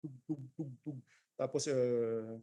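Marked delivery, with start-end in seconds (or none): 0.0-1.0 soft imitated percussion taps; short muted thuds in a row; dull thuds. Shown as a demonstration. Teacher repeating the dull percussion sound, soft thudding.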